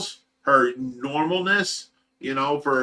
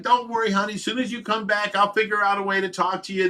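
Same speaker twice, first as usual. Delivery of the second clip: higher, tender comforting; 6 semitones higher than usual. Retold or imitated. Husband comforting his wife while stroking her face, higher and tender. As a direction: promise her gently that you'll find a way.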